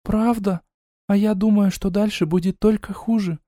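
a touch of sorrow, understated; sad voice. A narrator's reading. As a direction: sister sadly doubts, lightly played. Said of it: "печальным голосом сказала сестра".

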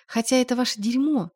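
plain reading voice

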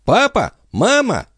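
put-on high little boy's voice calling out; small boy calling. A narrator's reading. Little son calling parents from the stairwell, high childish. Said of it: "голосок маленького Туссена".

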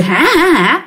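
spoken mock "ha ha ha" laugh; quick, half-hearted imitation of crazed laughter; imitated laugh. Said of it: "bắt đầu cười".

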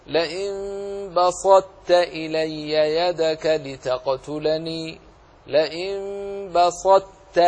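بسطت recited slowly, emphatic ط closure merging into ت; partial assimilation. Shown as a demonstration. Teacher reciting the verse for students, heavy ط merged into ت in بسطت. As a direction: hold a heavy ط in بسطت, release it as ت. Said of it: "أدغم الطاء في التاء مع إبقاء صفة الإطباق".

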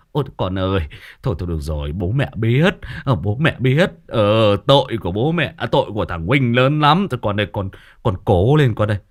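placating parent-in-law. Acted. Parents-in-law calming daughter-in-law in labour, placating. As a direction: soothe and take the blame, acted. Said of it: "Đấy, thế là".

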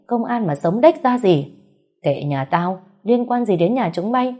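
put-on two old women trading insults at the gate, shouting high. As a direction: fling it back across the gate. Neighbors' quarrel through gate.

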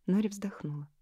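usual speaking voice

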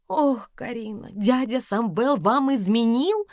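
high, slow, hushed astonishment; gasping in shock. A narrator's reading. Lika suspects Samvel cheated on Karina, gasping. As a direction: draw it out, aghast, rising into a question. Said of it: "ахнула Лика".

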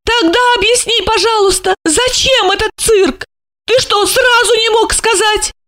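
high, insistent woman's pleading. A narrator's reading. Alexandra demands explanations from Gorokhov, high and insistent. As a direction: press him for answers.

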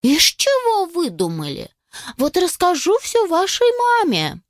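indignant scolding. A narrator's reading. Squirrel mother scolds.

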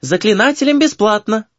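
high-pitched, friendly hostess exclamation; cheerful hostess voice; smiling. A narrator's reading. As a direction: announce a treat with a smile. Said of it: "улыбаясь".

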